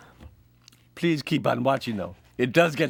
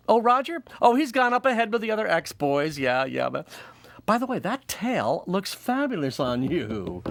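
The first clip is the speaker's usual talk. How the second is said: higher, gossipy; chatty lady voice; 4 semitones higher than usual. Acted. Vanessa chatting with Helen, higher gossipy voice. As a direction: gush about Roger. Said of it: "it's like".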